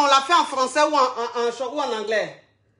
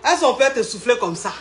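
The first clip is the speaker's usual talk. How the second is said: dit en riant doucement; 2 semitones lower than usual. Real, not acted. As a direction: lire la phrase à travers un rire. Rit en lisant la question. (lit la question du public en riant)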